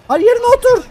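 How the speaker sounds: furious yell at a teammate; shouting. Real, not acted. Yelling at a teammate to get back in place. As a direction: bark the order to sit back down.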